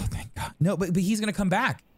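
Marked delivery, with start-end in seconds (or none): 0.0-0.5 breathy whispered aside; whispered relief. Real, not acted.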